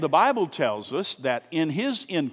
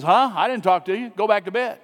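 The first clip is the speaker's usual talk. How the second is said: loud, higher, woken and dismissive; grumpy old priest; 4 semitones higher, 5 dB louder than usual. Retold or imitated. Eli sends the boy back to bed, annoyed. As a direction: brush the boy off, irritated. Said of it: "And Eli says".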